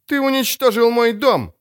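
high angry bark. A narrator's reading. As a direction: snap it out in fury. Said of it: "рявкнула шеф". (рявкнуть со злостью)

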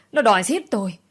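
loud theatrical wail, falling at the end; wailing cry. Acted. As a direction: howl it for the crowd to hear. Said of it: "vừa gào". (gào lên ăn vạ)

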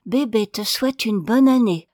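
put-on small boy gently moved by his wish. A narrator's reading. Little boy wishing his father a happy new year, moved. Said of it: "d'une voix émue".

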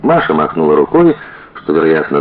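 plain reading voice

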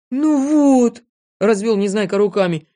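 high, loud grievance; hurt protest. A narrator's reading. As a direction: complain as if wronged. Незнайка protests being called donkey.

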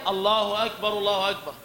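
second الله أكبر pair run together; joined phrases. Shown as a demonstration. Teacher gives the second correct pair, connected delivery. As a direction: link أكبر straight into the following الله. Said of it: "ثم الجملة الثانية".

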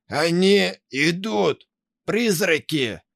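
high, slow panicked cry; terrified yell. Acted. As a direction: shriek in full horror. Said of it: "выкрикнул Митя в полном ужасе".

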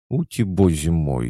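giggling. Acted. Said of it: "хихикнула ведьма-младшая".

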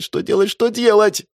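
high frantic что делать repeated; rising panic. A narrator's reading. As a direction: let the panic take over. Panic rising in his head. (паника, высоким голосом)

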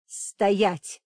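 loud yelled stop; shouted command. A narrator's reading. Demoness threatens the witch, loud yell. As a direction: bark the order. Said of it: "завопила демоница".

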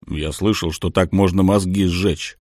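low rumbling soldier voice; bass voice. Acted. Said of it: "пробасил один из бойцов".

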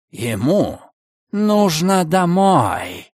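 "Ему нужно домой" with heavy stress on "нужно"; insistent stress. A narrator's reading. (с нажимом на «нужно»)

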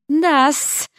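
dignified snake reply. Acted. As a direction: answer with serpent dignity. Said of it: "с достоинством откликнулась Нагина".

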